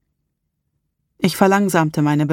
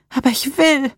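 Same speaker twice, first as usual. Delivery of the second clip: much higher desperate cry, "will" pressed hard; 10 semitones higher than usual. Acted. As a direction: plead it out desperately, pitch up high. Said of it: "rief sie verzweifelt aus".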